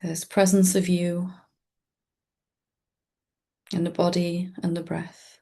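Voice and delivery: calm meditation guide with long, restful pauses; guided meditation. Acted. Teacher leading listeners into presence with the breath, calm guided-meditation voice. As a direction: guide listeners gently, leaving space between short phrases.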